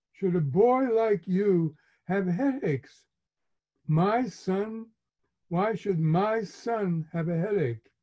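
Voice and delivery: a mother fussing over her son's headaches; worried mother. Retold or imitated. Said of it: "my mother said".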